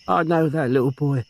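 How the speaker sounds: put-on a lightly tearful old aunt; grieving old aunt. Aunt mourning her nephew and sister, tearful.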